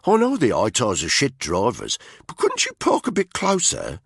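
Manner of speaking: a rough British soldier mocking the driver; contemptuous unit commander; sneering soldier. A narrator's reading. Voices soldier Tony.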